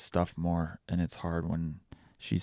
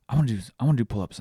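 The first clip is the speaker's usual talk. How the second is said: put-on toddler voice; 5 semitones higher, 5 dB louder, much faster than usual. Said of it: "Amelia goes".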